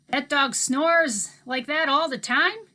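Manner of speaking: put-on easygoing old man talking to kids; Mookie's voice. A narrator's reading.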